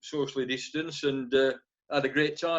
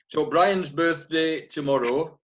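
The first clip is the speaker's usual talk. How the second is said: slower, louder stage voice; pantomime voice; 2 semitones higher, 4 dB louder, slower than usual. Shown as a demonstration. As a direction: project it slowly to the back of the hall. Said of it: "My pantomime voice reaches the back of the kitchen".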